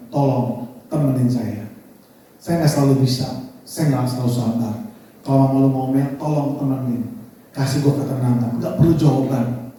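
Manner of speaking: low, earnest, vulnerable request. Retold or imitated. Wife asks husband to stay by her, low sincere plea. Istri memohon ditemani suami.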